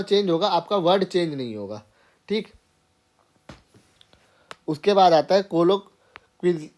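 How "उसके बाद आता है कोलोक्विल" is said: ordinary talk, nothing marked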